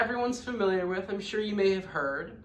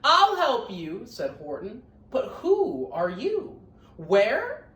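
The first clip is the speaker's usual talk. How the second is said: louder, slow call to a tiny unseen voice; 4 semitones higher, 5 dB louder, slower than usual. Acted. Horton calling to the tiny voice on the speck, loud and slow. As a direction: call out to find who needs help.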